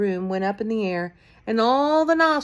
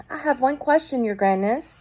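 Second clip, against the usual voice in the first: witch asking; 6 semitones higher than usual. A narrator's reading. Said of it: "said a voice in the audience".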